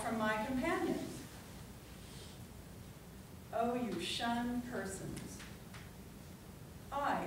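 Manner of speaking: measured, declamatory poem reading with long pauses; dramatic public poetry reading; poetry recitation. Acted. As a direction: recite it line by line, letting each phrase land. Recites a Whitman poem to audience.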